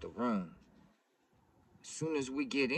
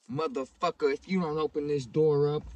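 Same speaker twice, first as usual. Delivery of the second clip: raised, higher-pitched retold threat; loud demand; 5 semitones higher, 4 dB louder than usual. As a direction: act out shouting through a closed door. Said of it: "I'm being loud as can be".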